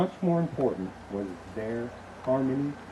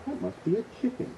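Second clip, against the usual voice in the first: wife's voice; 11 semitones higher than usual. Acted. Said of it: "she said".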